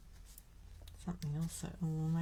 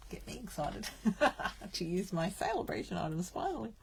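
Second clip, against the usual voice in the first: giggling through the words; laughing; 4 dB louder than usual. Real, not acted. To the viewers about her celebration items, laughing. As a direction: let the laugh spill into the line.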